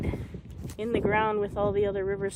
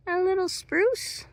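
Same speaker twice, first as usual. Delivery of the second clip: cooing; 13 semitones higher than usual. Real, not acted. Cooing over a tiny seedling.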